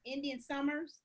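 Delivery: tired, drained and overheated; worn out. Real, not acted. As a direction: speak like you're exhausted from the heat. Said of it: "she's kind of suffering".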